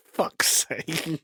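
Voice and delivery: breathy whispered curse; whispered exasperation. Real, not acted. Host groaning at the co-host's joke, whispered. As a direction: whisper it in disbelief. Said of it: "exasperated at bad joke".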